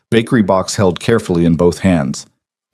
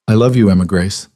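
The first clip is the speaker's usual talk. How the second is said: softer. Acted. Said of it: "His voice went softer".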